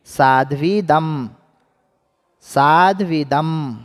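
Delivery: साध्वीदम said slowly and clearly; slow model. Shown as a demonstration. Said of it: "उच्चारण कीजिए आप लोग भी".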